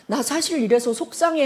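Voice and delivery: mild, unforced admission of hurt; softened, vulnerable reply; hurt confession. Acted. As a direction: confide it gently, without anger. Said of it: "하면 어때요?".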